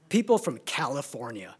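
imitating a Northern Irish friend's accent, low; lightly imitated Northern Irish lilt. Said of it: "That's how he said it".

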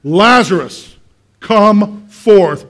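loud commanding call, word by word; Jesus. Acted. Jesus calls Lazarus out of the grave, commanding shout. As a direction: summon the dead with a big, measured shout. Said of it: "he calls him out of the grave".

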